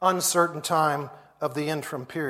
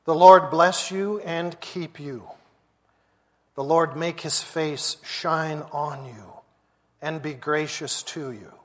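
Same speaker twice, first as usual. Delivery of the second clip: solemn blessing fading to a hush; benediction. Acted. Pastor blessing the standing congregation, solemn. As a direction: pronounce the blessing over them.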